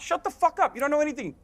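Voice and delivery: losing it. Real, not acted. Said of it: "I lost it".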